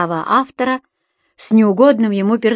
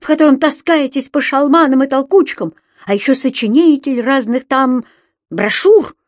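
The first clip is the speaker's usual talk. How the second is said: high-pitched scornful tirade; high, contemptuous scolding; shrill indignation; 6 semitones higher, 3 dB louder than usual. Acted. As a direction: rant in a raised, outraged squeal. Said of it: "взвизгнул тот фальцетом".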